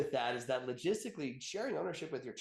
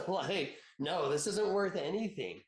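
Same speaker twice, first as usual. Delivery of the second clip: mock disbelief, amused and dismissive; laughing scoff; 5 semitones higher, slower than usual. Mocking a salesman who scoffs, laughing dismissively.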